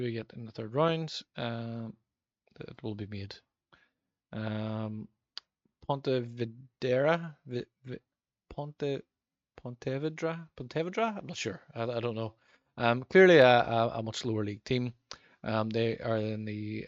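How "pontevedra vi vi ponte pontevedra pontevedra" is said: Spanish accent attempt. Shown as a demonstration. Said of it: "Apologies for my attempt at a Spanish accent".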